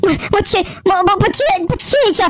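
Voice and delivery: high, stammering disbelief; startled and confused, words tumbling over themselves; bewildered shock. Acted. Acted shock at waking somewhere strange.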